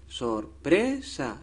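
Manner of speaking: Sorpresa slowly split, sor-pre-sa, leaning on PRE; syllable by syllable. Shown as a demonstration. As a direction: sound out "Sorpresa" slowly to find the stressed PRE. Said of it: "es la penúltima". (Sorpresa despacio, marcando cada sílaba)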